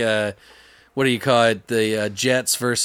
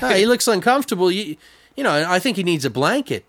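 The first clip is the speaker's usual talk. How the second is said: raised, fast mock worried voice; mock concern; 4 semitones higher than usual. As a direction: fuss like a clueless helper. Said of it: "He's like".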